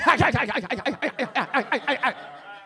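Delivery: stiff mechanical laugh; robot laugh. Acted. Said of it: "I'm a hit at all the parties".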